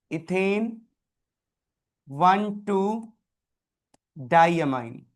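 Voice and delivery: Ethane, one two, diamine slowly, with long pauses between parts; dictation. Shown as a demonstration. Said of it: "तो आप लिखोगे". ("Ethane one two diamine" रुक-रुक कर, लिखवाने के अंदाज़ में)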